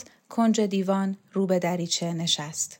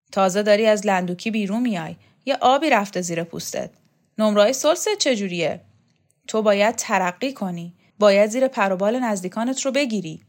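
put-on louder, gruff old champion; Shokat's voice; 5 dB louder than usual. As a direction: brush the boy off, irritated. Shokat advising Borzu.

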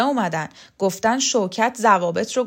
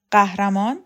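questioning rise on قهرمان, said with a g; mocking echo; 5 dB louder than usual. Kukan echoing the title back at Roxana in disbelief.

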